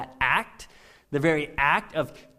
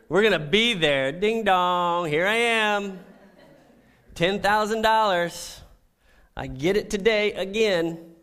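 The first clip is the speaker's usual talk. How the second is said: louder, higher mock eagerness; eager play-acting; 5 semitones higher, 5 dB louder than usual. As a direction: act out ringing the rich man's bell.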